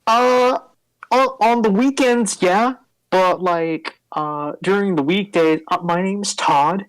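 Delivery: high, sheepish nerd voice; weekend vampire explaining himself; nerdy larper. Acted. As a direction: admit it sheepishly. NPC larper answering.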